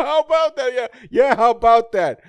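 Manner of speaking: high, smug squeak; mock high voice. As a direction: gloat in a silly cartoon voice. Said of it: "And then they go".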